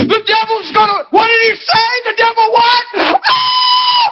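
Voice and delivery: full-force sermon; preaching shout. Real, not acted. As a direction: rouse the congregation. Preacher whipping up crowd.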